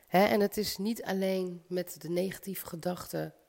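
talking through a head cold; stuffy voice from a cold; stuffy nose. Real, not acted. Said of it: "ik ben een beetje verkouden".

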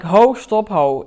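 sharp loud call to halt; retold "stop!". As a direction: cut him off with a loud "ho, stop". Coach stops client's plan.

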